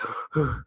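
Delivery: sharp breathless gasp after exercise; quick winded inhale; gasp for air. Real, not acted. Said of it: "I'm catching my breath".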